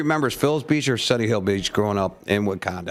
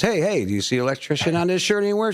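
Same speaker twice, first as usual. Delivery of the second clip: higher-pitched mock indignation; indignant husband; 7 semitones higher than usual. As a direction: play a put-upon husband brushing off his wife. Husband rebuffs wife in joke.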